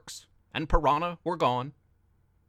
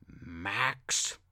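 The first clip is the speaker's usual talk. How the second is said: angry scream; 7 semitones lower, 4 dB quieter than usual. Acted. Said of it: "Mister X screamed angrily".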